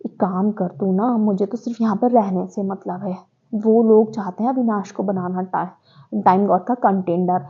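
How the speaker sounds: softly voiced conspiratorial aside; imitating Yamini. Housemate quietly pitching a plan to Chahat, imitated conspiratorially. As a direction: slip into a quiet, scheming imitation. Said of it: "वो बोलती है चाह से जाके".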